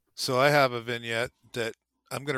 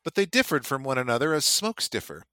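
measured, slightly raised reading voice; story reading; 3 semitones higher than usual. A narrator's reading. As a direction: read the passage like a storyteller. Reads a novel passage aloud.

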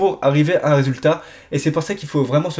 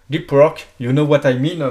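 put-on English accent. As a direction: toss off the English words with a hammed-up English accent. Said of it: "mon accent English". (petit accent anglais exagéré pour rire)

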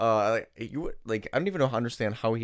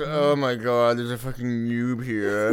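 slow, mock-disgusted gamer sneer; gamer nerd voice; much slower than usual. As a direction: drag it out like a snobby nerd. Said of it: "they all talk like that too".

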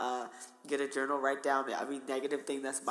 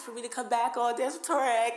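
laughing; 4 dB louder than usual. Real, not acted. Plugging the show, laughing.

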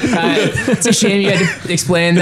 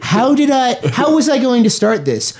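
Rapper impression; 6 semitones higher than usual. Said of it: "he literally goes".

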